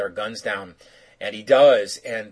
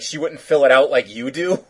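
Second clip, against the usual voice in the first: laughing quote; 2 semitones higher, 5 dB louder than usual. Retold or imitated. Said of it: "what does he say?".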